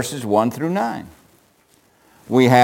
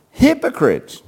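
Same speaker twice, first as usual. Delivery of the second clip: sharp raised hypocrites, higher; forceful rebuke; 10 semitones higher, slower than usual. Shown as a demonstration. Preacher showing how Jesus rebuked. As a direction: call out hypocrites hard. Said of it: "how do you think Jesus said that".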